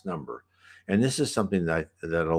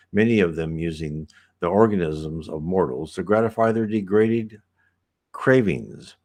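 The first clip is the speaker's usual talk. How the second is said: book reading. A narrator's reading. Reads the book aloud.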